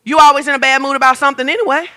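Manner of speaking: fast, laughing, worn-out spouse; weary spouse. Retold or imitated. Fed-up spouse brushing off a moody partner, fast and laughing. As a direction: rattle it off tiredly with a laugh. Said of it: "they start saying stuff like this".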